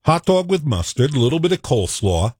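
native New Yorker vowels on "dog" and "coleslaw"; New York accent. Shown as a demonstration. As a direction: lean into New York "aw" sounds. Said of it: "That's my native tongue".

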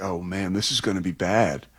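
low, soft dejected quote; imagined fan reaction. Retold or imitated. Host voicing viewers watching passes sail overhead, resigned aside. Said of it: "you're like".

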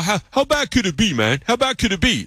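high-pitched mock disbelief; doubting coworkers. Coworkers doubting his high school friends' accents, high mock skepticism. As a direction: scoff it high, imitating the doubters. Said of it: "They're all".

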